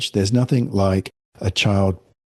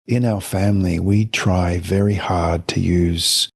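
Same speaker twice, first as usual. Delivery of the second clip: gentle parent phrasing. Shown as a demonstration. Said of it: "So I prefer to say".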